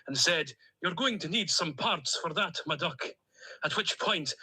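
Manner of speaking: put-on a duck character with a lightly held Stornoway accent; cheerful Stornoway lilt, a duck on a voice message. Duck on a voice note to his owner, in a Stornoway accent. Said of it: "in my Stornoway accent".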